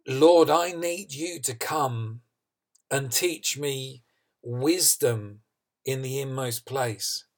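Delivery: slow, deliberate plea to God; earnest prayer. Acted. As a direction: pray it slowly, leaving space between phrases. Preacher voicing David's prayer to God.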